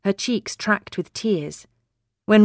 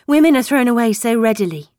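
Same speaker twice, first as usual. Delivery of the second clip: prim schoolmarm; 5 semitones higher, 5 dB louder, faster than usual. Acted. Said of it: "Her voice was like a schoolmarm's".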